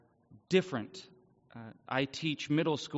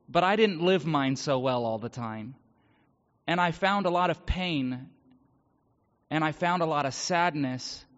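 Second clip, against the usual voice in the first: raised, emphatic testimony with deliberate pauses; earnest preaching; 5 semitones higher, 4 dB louder than usual. Real, not acted. Speaker testifies to a congregation about finding peace, earnest preaching. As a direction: preach it with growing emphasis, higher than conversational talk.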